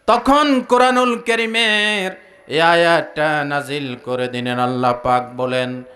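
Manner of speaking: low, drawn-out sermon chant; sing-song preaching. Acted. Preacher listing qualities for the congregation, chanted preaching. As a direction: intone it on a low, level note.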